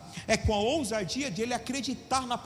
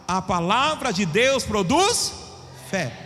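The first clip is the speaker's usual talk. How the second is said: slow; 2 semitones lower, slower than usual. Shown as a demonstration. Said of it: "Vamos lá?".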